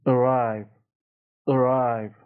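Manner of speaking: "Arrive" opening on a neutral uh, between ah and eh; schwa at the start. Shown as a demonstration. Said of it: "یه چیزی بین همین دوتا آ و ا".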